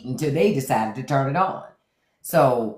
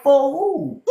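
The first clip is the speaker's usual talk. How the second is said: laughing retort; 10 semitones higher, 4 dB louder than usual. Retold or imitated. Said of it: "I'm like".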